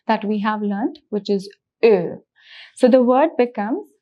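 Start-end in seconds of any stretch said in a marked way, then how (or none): 1.8-2.2 Ö held with rounded lips, tongue forward; O umlaut. Shown as a demonstration. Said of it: "the pronunciation of O umlaut".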